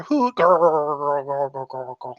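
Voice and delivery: lightly voiced dying owlbear growl. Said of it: "And then you hear".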